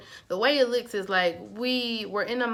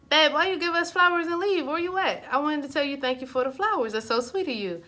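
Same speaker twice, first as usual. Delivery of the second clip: high-pitched, affectionate mock scolding; sweet gushing; 7 semitones higher, 3 dB louder than usual. Calling bae to thank her for flowers, high sweet gush. Acting out grateful phone call to partner.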